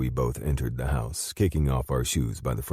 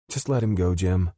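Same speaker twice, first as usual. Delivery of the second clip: higher sharp snap; snapping; 6 semitones higher, 3 dB louder than usual. Acted. Avery snapping at Jim to drop it, sharp higher snap. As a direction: cut him off short and sharp. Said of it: "Avery snapped".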